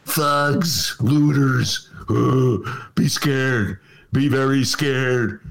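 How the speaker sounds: slow, drawn-out mock Trump voice; a hint of a fearmongering politician, slow and ominous. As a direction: drag it out like a lightly voiced doom-mongering Trump. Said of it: "He's gonna say".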